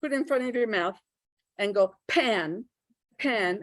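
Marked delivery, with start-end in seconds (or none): 2.1-3.6 "pan" with a strong puff of air on the p; aspirated pan. Shown as a demonstration. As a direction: breathe out hard on the "p" of "pan". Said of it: "you can feel the aspiration".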